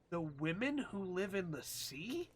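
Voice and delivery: slow puzzled read of "The women who live in the sea?" with a rise at sea; confused reading aloud; puzzled question; rising question. Real, not acted. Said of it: "Question mark, question mark".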